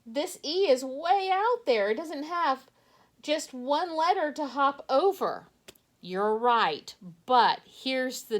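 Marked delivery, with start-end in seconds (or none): 0.0-5.5 lightly voiced surprised child; playfully voicing a pupil's worry; mock child voice. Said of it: "Now you say".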